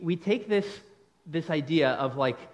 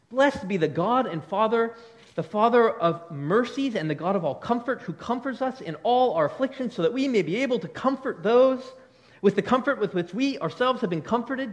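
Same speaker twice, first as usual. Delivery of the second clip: emphatic, raised preacher's reading; proclaimed Bible verse, pitched up; scripture reading; 5 semitones higher, 4 dB louder than usual. Acted. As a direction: read the verse out with building emphasis to a congregation. Reads scripture aloud to congregation.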